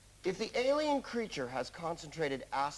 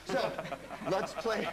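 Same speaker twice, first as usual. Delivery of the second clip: a touch of Scottish on "let's play"; light Scottish lilt on "let's play"; Scottish accent; slower than usual. Acted. Host closing his engineer bit in a Scottish accent. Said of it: "That was my Scottish accent".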